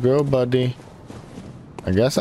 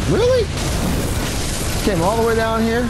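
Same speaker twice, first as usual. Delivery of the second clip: very high incredulous squeal; mock-outraged, much higher; outraged disbelief; 11 semitones higher than usual. Real, not acted. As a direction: shriek it in disbelief, pitched way up. Enemy follows him down.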